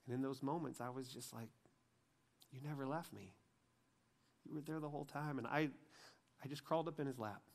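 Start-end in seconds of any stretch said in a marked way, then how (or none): 2.5-5.4 soft, hushed quote with pauses; tender realisation. Retold or imitated. Man realising God stayed with him, tender and soft. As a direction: let it land softly, as a quiet discovery.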